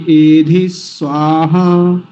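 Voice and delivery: एधि स्वाहा with a short, quick एधि; don't stretch एधि. Shown as a demonstration. Teacher showing a short एधि. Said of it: "जल्दी बोल देंगे".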